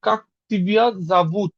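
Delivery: slow, careful Russian phrase; slow demo. Shown as a demonstration. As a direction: spell it out slowly for learners. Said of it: "এখানে আর মতন উচ্চারণ হবে". (ধীরে স্পষ্ট উচ্চারণ)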